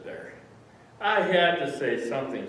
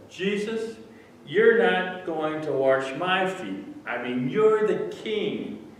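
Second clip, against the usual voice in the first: raised, high, insistent objection; emphatic protest; 6 semitones higher, 7 dB louder, slower than usual. Acted. Peter tells Jesus a king won't wash feet, loud protest. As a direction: protest slowly and loudly, pitched up.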